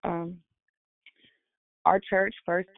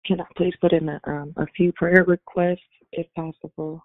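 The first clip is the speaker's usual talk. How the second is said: raspy voice; 3 dB louder than usual. Real, not acted. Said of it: "my voice is raspy right now".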